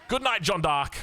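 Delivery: a sudden gasp, then a shocked farewell; stunned caster's farewell; gasped good night. Real, not acted. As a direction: catch your breath at the elimination, then say goodnight. Player just eliminated.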